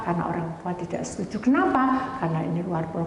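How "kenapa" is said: insistent why. Retold or imitated. Retells pressing friend for reasons.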